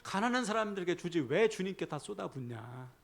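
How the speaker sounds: mildly huffy, drawn-out complaint; a touch of put-on outrage; indignant Judas. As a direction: grumble in mock indignation as Judas. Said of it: "유다가 발끈합니다".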